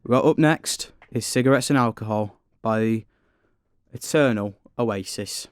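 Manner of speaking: lightly voiced radio DJ introducing the next track; radio presenter style. Guest asked to introduce the next song in a mock radio presenter style. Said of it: "Do it in a radio presenter style".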